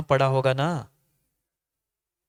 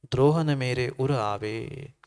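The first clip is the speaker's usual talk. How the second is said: recited verse; slower than usual. Acted. Preacher repeats the verse line slowly, reverent. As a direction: linger on each word of the prayer.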